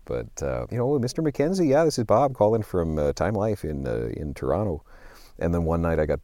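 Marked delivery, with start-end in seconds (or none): 0.9-4.8 a lightly put-on Canadian accent, like a telemarketer's pitch; a friendly Canadian phone salesman, only half committed; a hint of a Canadian accent, opening on a bright greeting; lame Canadian accent. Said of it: "this is a really lame Canadian accent".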